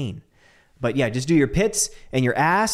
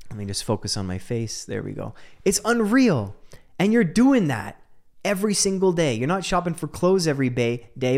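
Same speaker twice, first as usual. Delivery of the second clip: normal talking voice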